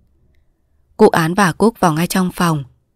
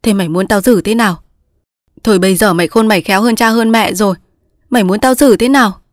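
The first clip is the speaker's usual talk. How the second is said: mock sulk; 3 semitones higher, 3 dB louder than usual. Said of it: "làm mặt giận dỗi".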